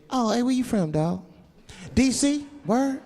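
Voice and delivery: casual, upbeat street-talking chauffeur; limousine driver. Acted. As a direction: play a chatty driver making small talk. Acts chatty limousine driver.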